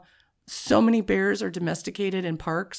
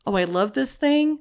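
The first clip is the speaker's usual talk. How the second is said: gushing fan; 5 semitones higher than usual. Retold or imitated. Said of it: "in a more".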